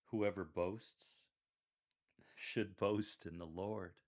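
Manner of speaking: slow, weighted "boasts" and "boast", pause between; highlight boasts and boast. Shown as a demonstration. Coach models the closing quote, slowly stressing "boasts" and "boast". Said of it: "Insert a slight pause after that".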